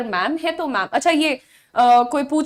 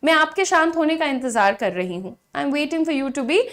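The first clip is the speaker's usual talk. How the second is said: very slow, word by word; slow model sentence; slower than usual. Shown as a demonstration. Teacher modelling a sentence slowly for learners. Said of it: "So you will say".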